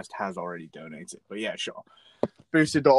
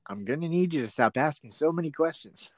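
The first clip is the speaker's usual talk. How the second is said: mock host; 2 semitones higher than usual. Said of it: "Like a videotape".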